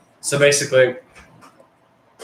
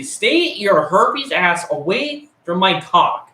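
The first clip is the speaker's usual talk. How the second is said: mock warning; 4 semitones higher, slower than usual. Warning off the girl in bathroom.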